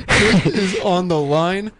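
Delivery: loud, slow, laughing echo; excited announcement. Real, not acted. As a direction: echo the news with delighted laughter.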